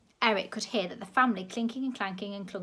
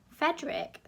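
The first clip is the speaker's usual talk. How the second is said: mock the name, higher; scoffing; 7 semitones higher than usual. A narrator's reading. Grandma scoffing at the director's name. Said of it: "the old lady scoffed".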